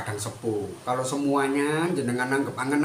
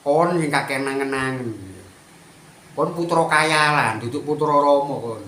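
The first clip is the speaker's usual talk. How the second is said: fired-back retort; 5 dB louder than usual. Real, not acted. Firing back at critics.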